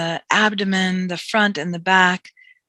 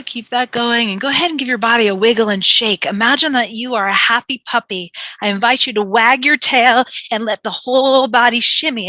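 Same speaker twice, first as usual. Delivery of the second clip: upbeat; 3 semitones higher, 5 dB louder than usual. Real, not acted. Coaching a playful shake.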